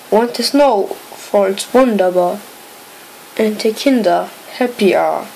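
measured comic poem reading, pausing after each line; poem recitation. Acted. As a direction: recite a Denglish Christmas rhyme line by line. Reads a comic mixed-language poem aloud.

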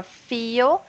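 "Feel" modelled with a held, tense i sound; tense I vowel. Shown as a demonstration. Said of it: "esse símbolo é do I tenso".

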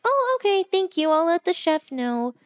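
smooth it over like a server; mock-sweet waitress reply; polite waitress. Waitress answers the rude critique.

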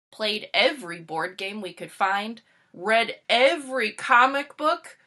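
lightly voiced kid Frankie, bored; a hint of a fed-up child listing it all; Frankie, a touch weary, reels off everything they've done; Frankie's voice. Frankie answers Sal in story.

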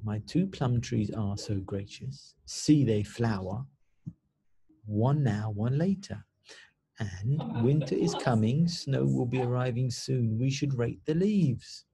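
gentle recited poem; reading a haiku aloud. Shown as a demonstration. Teacher reads a haiku to pupils, gently recited. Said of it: "So look".

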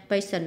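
"patient" stressed on the first syllable. Shown as a demonstration. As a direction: hit the opening syllable of "patient". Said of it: "âm một".

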